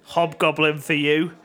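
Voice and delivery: loud, drawn-out offer; mock grand presentation; imitated pushy barman. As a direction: announce it slowly like a pushy bartender. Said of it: "the guy said to him".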